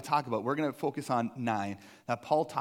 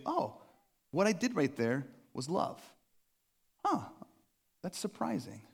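mock surprise. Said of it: "you might say".

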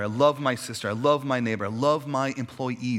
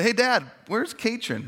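put-on kid asking dad; 9 semitones higher, 3 dB louder than usual. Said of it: "we'd say".

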